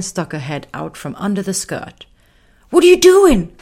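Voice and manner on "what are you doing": very high, loud little lion calling out; eager little lion. Acted. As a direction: squeak out an urgent question. Lion Raga calls to Belle.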